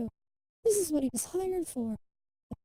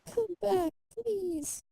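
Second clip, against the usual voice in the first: put-on anguished pleading child; 6 semitones higher, slower than usual. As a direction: call after parents who are leaving, pained. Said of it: "He can feel her pain and sorrow".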